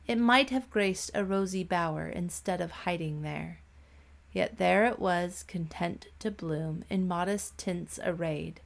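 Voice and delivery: put-on gentle children's poem recital; poem reading. A narrator's reading. Reads a poem.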